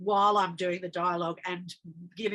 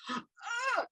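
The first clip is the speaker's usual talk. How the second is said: pained cry; 4 dB quieter than usual. Retold or imitated. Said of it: "I can feel myself going".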